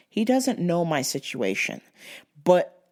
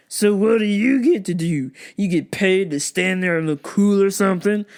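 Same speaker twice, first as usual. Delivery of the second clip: smug customer. Retold or imitated. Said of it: "Just like that".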